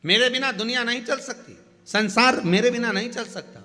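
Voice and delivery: loud, forceful voice. Acted. Lakshmi boasting to Narayan that the world needs her, loud and forceful. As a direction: declare it loudly, driving each claim home. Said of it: "बहुत तेज स्वर में कह दिया".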